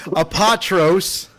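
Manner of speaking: slow deliberate a-POT-ros; careful name. Shown as a demonstration. GM finally getting the player's name right, slow and careful. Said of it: "There you go".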